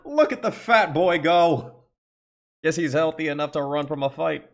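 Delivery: mocking old woman. Old woman mocking fleeing bully.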